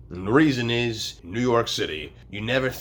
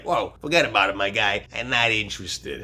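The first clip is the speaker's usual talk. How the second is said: Brooklyn accent. Shown as a demonstration. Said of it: "The idea is you're like".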